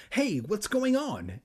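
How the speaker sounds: high, slow angry calling out. Acted. Conan yelling angrily over the fence about the dog. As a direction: call across the yards, annoyed. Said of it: "an angry voice called".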